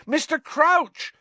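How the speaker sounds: high, loud, drawn-out shout; exasperated high yell. A narrator's reading. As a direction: shout the name in desperation. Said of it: "Harry shouted".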